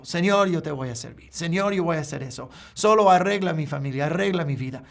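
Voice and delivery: fast, rattled-off prayer, mocking the empty vow; hasty mock promises. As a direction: reel off the promises quickly, half-mocking. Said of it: "vienen y prometen a Dios todo el mundo". (oración de promesas rápida y burlona, sin sinceridad)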